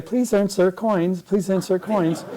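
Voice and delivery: lightly voiced operator, slow and repetitive; drawn-out recited operator's request; imitated phone operator. Operator interrupts the long call, lightly imitated slow recital. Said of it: "the operator interrupted me and kept saying".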